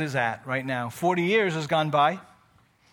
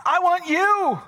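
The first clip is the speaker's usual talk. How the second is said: voicing God; 10 semitones higher, 3 dB louder than usual. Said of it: "And God says".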